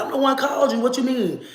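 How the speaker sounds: high, incredulous protest through a laugh; can't believe it, laugh while protesting. Retold or imitated. Telling the officer she called them, laughing protest.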